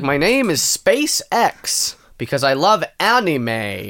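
drawn-out oddball tycoon with weird word emphasis; slow, stressing the wrong words in a light impression; Elon Musk. Guest playing a tech billionaire on a joke podcast, oddly emphasized. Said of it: "You had kind of a weird emphasis on different words".

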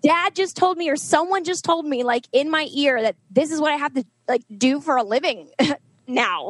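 high-pitched, breathless telling of the revelation; emotional excitement. Retold or imitated. Tells sister about the message.

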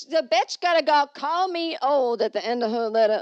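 loud, high mock indignation; hammed-up offense; mock outrage. Reacting to listener calling her old.

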